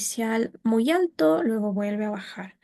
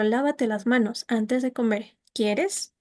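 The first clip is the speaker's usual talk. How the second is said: "Lávate las manos antes de comer" falling, then "¿quieres?" rising; softened command with tag rise. Shown as a demonstration. Teacher demonstrating a request turned question for class. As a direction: soften the order and lift "¿quieres?". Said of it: "Sube el tono ... y en la parte ¿quieres? se vuelve a subir".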